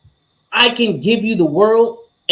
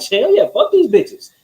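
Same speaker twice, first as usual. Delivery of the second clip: high, hyped-up hell yeah; excited cheer; 7 semitones higher than usual. Retold or imitated. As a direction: cheer it on like she's right with you. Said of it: "it's like".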